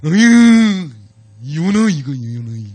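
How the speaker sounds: loud, fed-up groan at Jonah; exasperated scolding. Shown as a demonstration. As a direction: scold Jonah like a naughty child. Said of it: "여러분 안 그러세요?". (버릇없는 요나에게 크게 답답해하는 꾸중)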